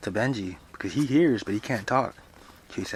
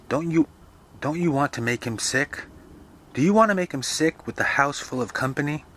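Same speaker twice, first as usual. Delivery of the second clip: higher-pitched, worried mother's scolding; a mother's raised, fretting questions; fretful scolding mother; 6 semitones higher, 4 dB louder than usual. Acted.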